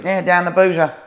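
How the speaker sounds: very loud, high yobbish heckle; acted punk yell; punk shout. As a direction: bellow it back at the interviewer. Acted punk answering back.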